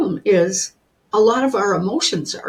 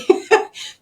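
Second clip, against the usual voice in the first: short breathy burst of laughter; real laugh; 4 dB louder than usual. Real, not acted. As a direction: laugh it off warmly at the joke. Laughs at host's remark.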